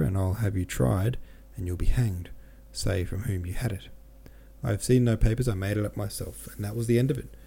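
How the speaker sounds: steady novel reading voice with light character quotes; measured literary reading; audiobook narration. A narrator's reading. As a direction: read the chapter to listeners, unhurried. Reads the novel chapter aloud.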